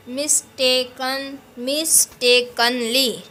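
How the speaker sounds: "मिस्टेकन, मिस्टेकनली" slowly broken into syllables. Shown as a demonstration. Teacher showing syllables to students, slowly segmented. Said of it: "जैसे मैं बोल रही हूँ ना".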